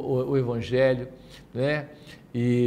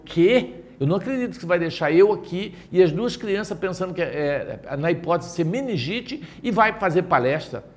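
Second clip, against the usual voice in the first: wife's outraged disbelief; 5 semitones higher than usual. Retold or imitated. Wife protests his leaving.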